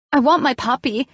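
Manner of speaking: put-on high, loud childlike demand; shouting back. A narrator's reading. Hospital patient shouting at the nurse, loud and high. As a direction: yell it out for the puppy. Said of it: "I shouted back".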